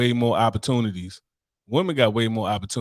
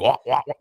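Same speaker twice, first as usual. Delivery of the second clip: mock gagging; 3 dB louder than usual. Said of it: "TikTok and Instagram noises".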